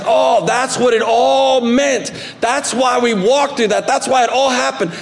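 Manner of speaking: a touch of amazed discovery; sudden realization. Retold or imitated. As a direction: let it all click at once. Realization quote, higher, shout.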